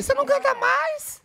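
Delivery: quoting a jab. Retold or imitated. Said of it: "soltou aquele ali".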